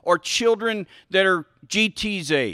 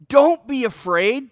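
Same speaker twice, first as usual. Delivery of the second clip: reassuring parent; 5 semitones higher, 4 dB louder than usual. Pretend. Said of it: "That's a command".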